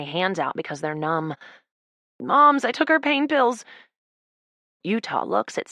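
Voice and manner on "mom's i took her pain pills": tearful. Acted. Tearful confession.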